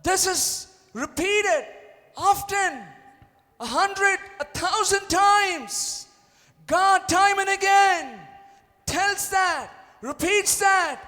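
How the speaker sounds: high, very slow, emphatic preaching; full-force preaching. Acted. Pastor preaching to believers that God repeats his promise. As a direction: stretch every word out.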